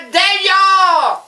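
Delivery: high, loud call of the name. Retold or imitated. Husband calling the cat loudly. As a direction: call across the house. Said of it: "Là, il disait, hein?".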